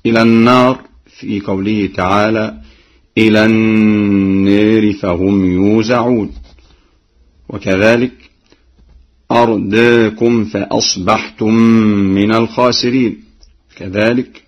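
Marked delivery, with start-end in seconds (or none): 3.2-6.3 النار with the alif tilted toward e; Warsh taqlil. Shown as a demonstration. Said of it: "بتقليل الألفاظ التالية". 9.3-13.2 أرداكم with alif tilted toward e; Warsh taqlil. Shown as a demonstration. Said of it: "بتقليل الألفاظ التالية".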